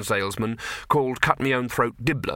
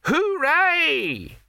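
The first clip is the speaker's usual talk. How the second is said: mock cheer. Pipe man mimics shout.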